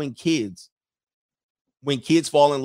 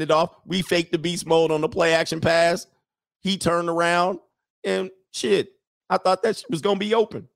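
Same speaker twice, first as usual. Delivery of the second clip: mock coach excuses. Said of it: "And you come over".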